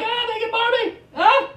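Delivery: high, loud amused exclaim; dad finding the naked Barbies; mock surprise. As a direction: react high with mock shock. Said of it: "I'm like".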